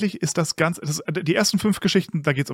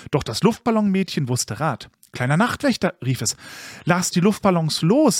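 put-on lilting read-aloud for children; animated storybook reading; story narration. A narrator's reading. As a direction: tell it like a bedtime tale, with expressive swells.

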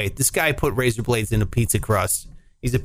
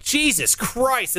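shocked; 8 semitones higher, much slower than usual. Retold or imitated. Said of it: "I was like".

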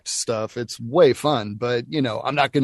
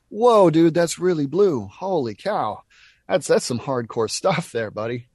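surprised; 4 semitones higher than usual. Retold or imitated. Reacting to kid's crude request.

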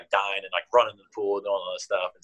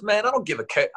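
mock player voice; 11 semitones higher than usual. Coach imitating Jimmy shrugging off legacy, high mock voice. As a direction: imitate the player in a much higher, cocky voice. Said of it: "He goes".

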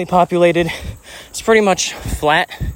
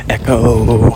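calling out; 5 semitones lower, 5 dB louder than usual. Real, not acted. Calling out in echoey tunnel.

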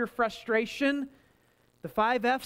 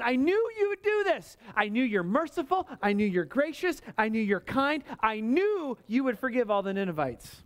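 complaining Jonah. Retold or imitated. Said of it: "And he said".

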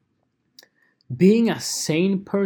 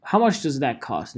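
put-on clueless teen; 3 dB louder than usual. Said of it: "And the teenager goes".

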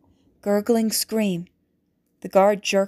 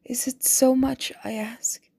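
whispered plea; 3 semitones higher than usual. A narrator's reading. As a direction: beg him under your breath. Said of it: "Jessica pleaded".

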